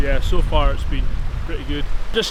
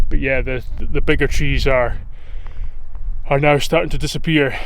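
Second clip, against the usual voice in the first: raised voice against the wind; shouting over wind; 4 dB louder than usual. Real, not acted. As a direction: project over a strong breeze. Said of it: "hopefully you can hear me over the wind".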